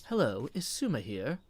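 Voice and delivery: lilting greeting in a twang-free neutral accent. Shown as a demonstration. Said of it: "go with a completely neutral".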